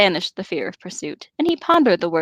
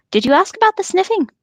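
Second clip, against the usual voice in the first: whispering; 11 semitones higher, 5 dB louder than usual. Acted. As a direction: hush it like a secret. Curious hobbit asking.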